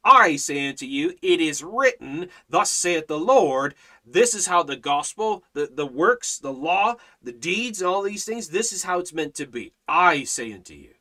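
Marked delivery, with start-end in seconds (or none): 0.0-3.8 emphatic, declarative quote of the Lord; absolute authority. Acted. Preacher quotes what the Lord says, with absolute authority. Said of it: "vocabulary of absolute authority". 9.9-10.9 firm, lower pronouncement; absolute authority. Acted. Preacher sums up God's way of speaking, with firm authority. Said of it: "vocabulary of absolute authority".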